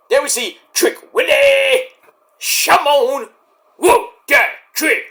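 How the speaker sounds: high, loud hype-man yell; slow, whooping hype call; hype shout. Retold or imitated. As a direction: shout his entrance like the crowd. Hyping Trick Willie's entrance.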